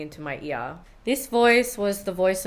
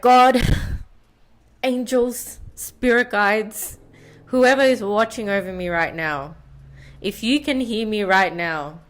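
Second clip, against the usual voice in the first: hammed-up cocky plea to the heavens, opening high and loud; cheeky over-the-top invocation; mock dramatic prayer; 4 semitones higher, 4 dB louder than usual. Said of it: "You should have seen the way I prayed".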